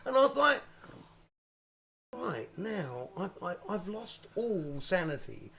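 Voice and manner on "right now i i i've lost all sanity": slow, softened inner voice; quiet, drawn-out realisation; acted snapped calm. Acting out his own snapped state.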